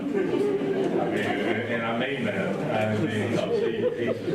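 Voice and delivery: laughing through the words; real laughter breaking into the praise. Real, not acted. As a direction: speak while chuckling, drawn out. Laughing during retirement tribute.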